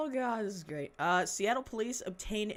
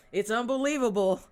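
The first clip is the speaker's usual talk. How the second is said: exclaimed; 3 semitones higher, 8 dB louder than usual. Real, not acted. Reacting to the news.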